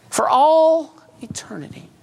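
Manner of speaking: breathy whispered doom; hushed whisper of endless falling; dramatic whisper. Acted. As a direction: whisper it like a terrible secret.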